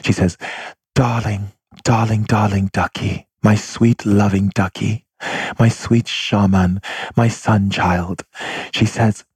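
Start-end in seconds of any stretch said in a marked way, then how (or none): 0.9-8.2 slow, tender, lilting endearments; imitating a gentle, ethereal mother; soft-spoken mother. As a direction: coo lovingly like a doting mother, unhurried. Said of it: "she always speaks with a very soft tone".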